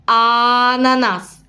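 slow "Ананас" leaning on the opening "а"; stretched first sound. Shown as a demonstration. Teacher showing parents the first sound, slowly. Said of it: "Ми даємо такий наголос, да, на перший звук".

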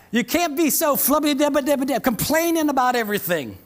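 chuckling through the silly words; playful laughing jab; laughing tease. Real, not acted. Laughing while teasing the congregation.

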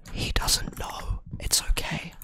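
slow, soft whisper. Real, not acted. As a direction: breathe it out slowly. Slow whispered self-reassurance.

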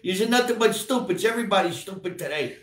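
put-on high, loud gruff old uncle lecturing; Uncle Tommy. Uncle lecturing nephews they'll grow up stupid, high and loud. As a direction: scold the kids like a cranky old uncle. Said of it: "And he would go like this".

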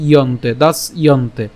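দাস ইয়ন্তে with the jofola said as a clear ইয় glide; pronunciation demo. Shown as a demonstration. Teacher showing how দাস্যন্তে is sounded. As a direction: split দাস and ইয়ন্তে carefully. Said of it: "তাহলে উচ্চারণটা কেমন হচ্ছে?".

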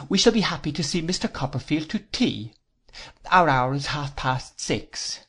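lightly voiced formal aunt, measured; prim Miss Clarissa. Miss Clarissa grants Copperfield Sunday dinners, lightly voiced formal lady. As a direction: lightly play a ceremonious lady setting out terms.

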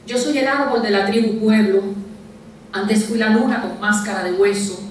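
measured poem reading, pausing after each verse; deliberate literary delivery with falling line endings; poetry recitation. Acted. Recites own poem aloud.

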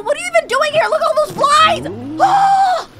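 high squealed complaint into scream; grossed-out alarm. Real, not acted. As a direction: squeal in disgust, end on a shriek. Disgust, then a scare.

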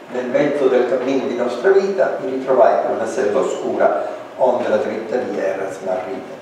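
reading Dante aloud in Italian; poem recitation. Shown as a demonstration. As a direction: recite the Dante line as verse.

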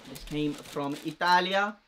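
loud mock Italian accent, ITALIA rising; put-on Italian accent. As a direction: ham up an Italian accent for show. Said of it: "I don't know why I'm putting on the accent".

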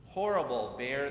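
put-on girl yells at the bear who crushed her kite, mildly loud and cross; angry shout. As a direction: throw the name at the bear in a huff. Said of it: "the girl shouted".

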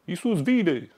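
mock street preacher yelling, high, loud and slow; street preacher shouting. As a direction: bellow it like a street preacher at passers-by. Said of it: "Doar strigă la oameni".

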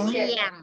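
เสียง pressed down low, ending on ng; low third tone. Shown as a demonstration. Teacher repeating after a student, เสียง pressed low. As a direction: model เสียง with a low dipping tone. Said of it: "คำนี้ต้องกดเสียงลงต่ำๆ".

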